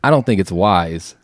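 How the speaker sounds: hoarse, strained voice; losing voice. Real, not acted. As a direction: talk with a worn-out voice. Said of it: "I'm losing my voice".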